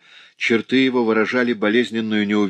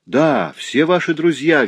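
high, drawn-out, excited confirmation; joyful agreement; 7 semitones higher, 4 dB louder, slower than usual. A narrator's reading. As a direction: chime in eagerly, stretching the words. Germain joins the joyful greeting.

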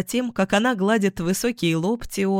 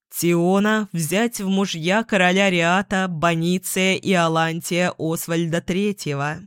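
solemn voice. A narrator's reading. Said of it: "заговорил торжественным голосом".

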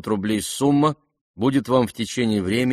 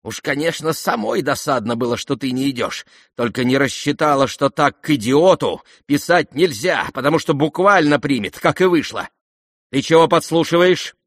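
higher, louder rising scold; flustered scolding; 4 semitones higher, 4 dB louder than usual. Acted. Lizaveta catching herself and snapping at the prince. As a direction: snap at him for eavesdropping. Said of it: "крикнула она".

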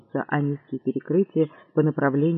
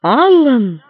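louder surprised cry; exclaim; 6 semitones higher, 7 dB louder than usual. Acted. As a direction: cry out the name. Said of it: "вскричал Лафайет".

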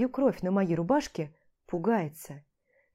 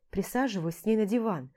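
plain reading voice

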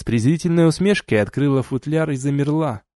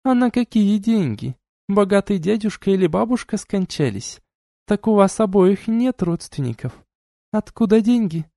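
duchess voiced higher, cool and lecturing; stern duchess; 9 semitones higher than usual. A narrator's reading. Duchess reproaching the couple, cool and lecturing. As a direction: scold them like a haughty duchess.

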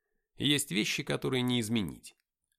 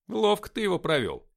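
impressed; 10 semitones higher, 10 dB louder than usual. A narrator's reading. Narrator praising trick.

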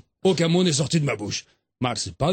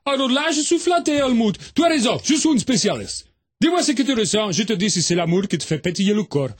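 voix plus aiguë de Zouzou, fier de lui; Zouzou flatté; 4 semitones higher than usual. Acted. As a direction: joue le spécialiste flatté. (Zouzou, un peu plus aigu, ravi)

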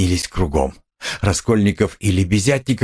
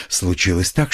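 usual speaking voice

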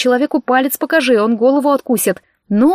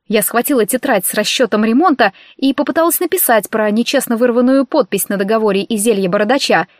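ordinary delivery, nothing marked

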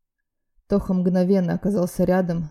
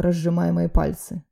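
usual speaking voice

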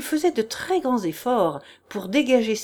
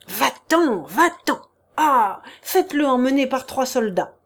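angry dismissal; 3 semitones higher, 3 dB louder than usual. Acted. Prince orders him away.

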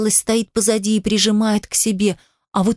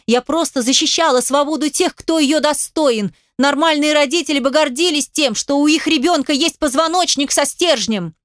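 high, raised, passionate protest; heated defence; 7 semitones higher than usual. Acted. Daughter defending herself to her father, high and heated. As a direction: throw it at him, pitched up and fierce.

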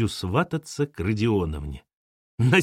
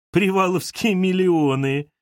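proclaiming; 6 semitones higher, 3 dB louder than usual. A narrator's reading. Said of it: "провозгласил Хохлов".

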